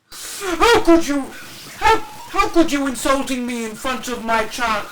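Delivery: loud entitled parent; entitled mom voice. Acted. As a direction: talk down to her like she's stupid.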